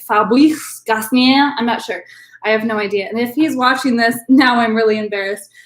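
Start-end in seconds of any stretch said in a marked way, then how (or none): 0.1-1.5 unsure stab at French pronunciation; attempted French accent. Shown as a demonstration. Wine host correcting herself on the winemaker's name, French accent. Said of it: "That's not how you say".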